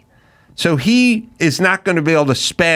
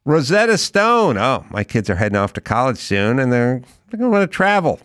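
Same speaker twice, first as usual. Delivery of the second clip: casual sponsor read with acted asides; loose, chatty host-read commercial; podcast ad read; 3 semitones lower than usual. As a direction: ease into a conversational ad pitch. Reads a sponsor ad.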